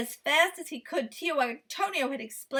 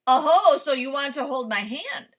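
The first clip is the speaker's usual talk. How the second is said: cheeky; 2 semitones higher, 8 dB louder than usual. A narrator's reading. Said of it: "said Kui".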